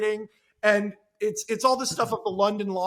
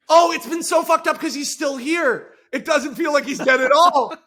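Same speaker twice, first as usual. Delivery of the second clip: laughing confession; 6 semitones higher, 7 dB louder than usual. Retold or imitated. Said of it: "And David goes".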